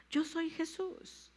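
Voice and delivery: proclaimed. Shown as a demonstration. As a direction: announce it, leaning on yo. (proclamado, lento y agudo)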